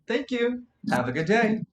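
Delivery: flat, automatic receptionist greeting; deadpan scripted politeness; monotone greeting. Acted. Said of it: "saying hello in a very monotone voice".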